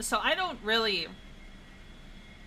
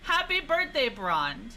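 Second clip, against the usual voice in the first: 1 mock birthday greeting; slower than usual. Greeting in put-on voice.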